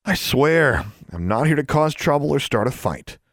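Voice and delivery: high, exasperated protest. A narrator's reading. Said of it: "Larry sighed loudly".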